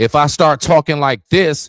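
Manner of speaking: very high, loud, projected, energetic delivery. Demonstrating how to give speech more energy, raised, loud voice. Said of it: "now I done raised my voice".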